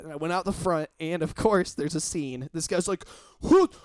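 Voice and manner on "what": high, loud, incredulous shout; a stranger shouting over his smashed car; car owner yelling in disbelief at the damage; outraged car owner. Retold or imitated.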